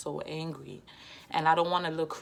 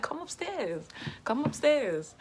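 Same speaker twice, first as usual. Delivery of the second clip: much higher taunting call, louder on the repeat; 10 semitones higher, 4 dB louder, slower than usual. Retold or imitated. Daring the cousin to come upstairs, loud taunting call. Calling down, inviting fight.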